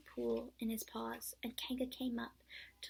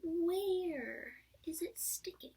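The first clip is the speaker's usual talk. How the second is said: slow, high, whispered Rabbit voice; Rabbit's question; 7 semitones higher, 4 dB louder, much slower than usual. A narrator's reading. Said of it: "said Rabbit".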